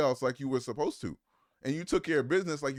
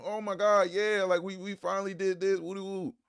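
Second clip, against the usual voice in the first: mock celebration; 9 semitones higher, 4 dB louder than usual. Mocking small-win celebrators.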